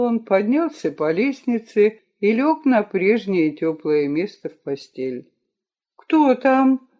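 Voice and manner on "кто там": drowsy mumble into a pillow; half-asleep, face in the pillow; sleepy, into a pillow. Acted. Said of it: "невнятно лицом в подушку сонно спросила".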